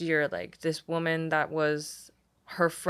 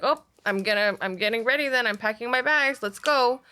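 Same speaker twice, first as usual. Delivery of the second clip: higher-pitched, eager imitation of mom; lightly acted eagerness, pitch climbing; imitating eager mom; 5 semitones higher than usual. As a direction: build upward, ready to leave at once. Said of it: "she would go like".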